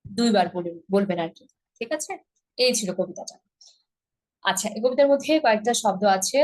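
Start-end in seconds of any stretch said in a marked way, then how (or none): none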